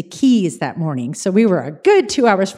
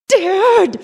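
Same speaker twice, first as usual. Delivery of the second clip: high, loud outraged call; exasperated cry; 10 semitones higher, 6 dB louder than usual. Retold or imitated. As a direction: yell his name in disbelief. Engine cuts out, exasperated.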